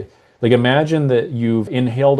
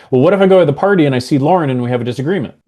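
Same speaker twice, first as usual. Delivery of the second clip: fast, higher and louder worry; louder anxious self-talk; 4 semitones higher, much faster than usual. Shown as a demonstration. Coach demos the anxious loud inner voice, fast. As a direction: rush it out with rising alarm. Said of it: "very different meaning".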